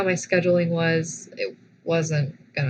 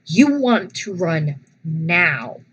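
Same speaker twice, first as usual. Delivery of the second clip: stern order; 4 dB louder, slower than usual. Retold or imitated. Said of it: "And I said".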